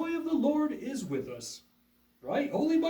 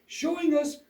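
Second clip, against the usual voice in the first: earnest upbeat school lecture. Acted. Puppet show host intro.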